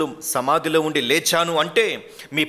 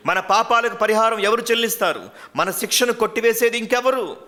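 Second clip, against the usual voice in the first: rising, louder alarmed pleading; anxious panic; 6 semitones higher, 4 dB louder than usual. Acted. Disciples at the tomb fearing no one will save them, anxious. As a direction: voice climbing in dread as hope slips away. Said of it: "అనేటువంటి ఆదుర్దాలోకి వాళ్ళు వెళ్ళిపోయారు".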